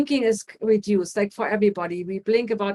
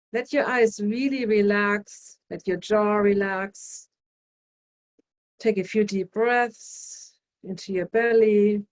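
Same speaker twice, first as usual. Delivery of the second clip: slow, calm relaxation guide; slower than usual. Shown as a demonstration. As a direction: ease them into rest slowly. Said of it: "guiding palming relaxation".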